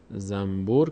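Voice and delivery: zam-bur, no n heard in زنبور; n turned to m. Shown as a demonstration. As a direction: say زنبور as zambur, with m before b. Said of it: "مثل زنبور".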